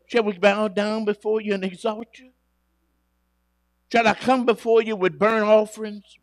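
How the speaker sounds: loud, eager people bargaining with God; pleading Israel. Acted. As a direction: plead anxiously to win the Lord over.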